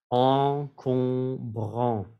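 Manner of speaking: Encombrant whispered very slowly, nasals clear. Shown as a demonstration. Teacher whispering Encombrant to show the nasals. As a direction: breathe Encombrant with no voice. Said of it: "tres sonidos nasales".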